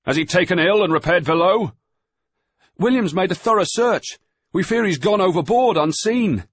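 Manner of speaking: loud, high voices; shouting over the storm. A narrator's reading. Boy and master shouting about the missing man. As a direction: keep it yelled against the gale.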